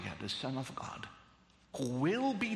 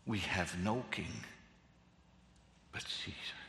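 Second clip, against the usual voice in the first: grim quiet; 10 semitones lower, 6 dB quieter than usual. Retold or imitated. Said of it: "these are terrifying words".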